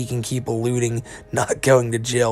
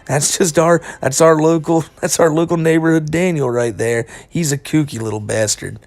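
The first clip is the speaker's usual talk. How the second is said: laughing, higher, louder mock cop; lazy cop impression; 4 semitones higher, 4 dB louder than usual. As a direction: shrug it off like an amused cop. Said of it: "the cops are just all like".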